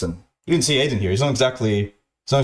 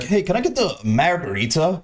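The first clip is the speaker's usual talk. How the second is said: mock dumb voice; 6 semitones higher than usual. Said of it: "He says it's in a retarded way".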